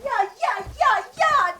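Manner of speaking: very slow, stretched mocking exclamation; drawn-out scoff. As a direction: drag it out, mocking them. Daughter mocks parents' smooth talk.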